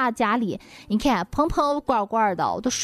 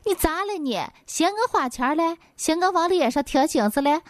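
retold indignation; 6 semitones higher than usual. Friend scolds her husband over money, mock indignant. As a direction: act out a miffed wife's rising challenge. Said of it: "我朋友就可生气了".

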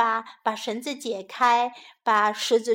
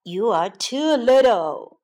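lion voice; 5 dB louder than usual. A narrator's reading. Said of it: "他说".

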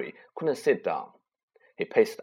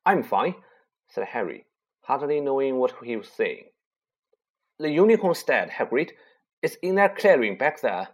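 put-on shaken boy; 3 semitones higher, 3 dB louder than usual. Harry voiced, shaken.

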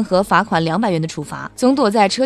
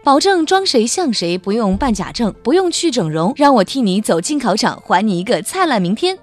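infomercial; 2 semitones higher than usual. Acted. Parody ad sales pitch.

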